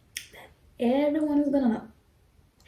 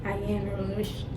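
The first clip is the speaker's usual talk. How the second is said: tripping over the words; stuttering; 2 semitones lower, 6 dB quieter than usual. Real, not acted. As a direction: stumble and cut off mid-word. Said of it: "I'm stuttering".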